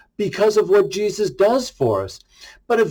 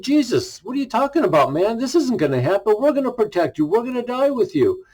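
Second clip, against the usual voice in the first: higher, lightly voiced brash protest; brash Peter; 5 semitones higher than usual. Peter telling Jesus the disciples will protect him, brash protest. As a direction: play a brash disciple insisting, a touch hammed. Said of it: "Peter, being the brash one, got up and said".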